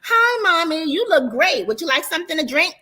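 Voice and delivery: fake-sweet daughter voice to her mother; sugary nice. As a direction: pile on the forced politeness. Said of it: "I'm trying to be nice".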